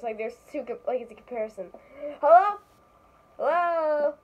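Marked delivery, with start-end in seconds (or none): 2.2-2.6 high, loud opening call; echo voice call. Pretend. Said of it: "let's do an echo voice". 3.4-4.1 drawn-out echo of a hello; echo voice reply. Pretend. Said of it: "let's do an echo voice".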